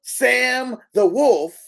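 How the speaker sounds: slow, high, loud ring-announcer call. Shown as a demonstration. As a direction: draw out each word like a ring intro. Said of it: "Take two".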